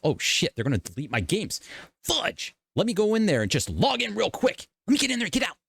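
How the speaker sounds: high, frantic gamer voice; a gamer scrambling to log in before deletion, panicked; panicking gamer. Retold or imitated. Rushing to save his games, frantic high voice.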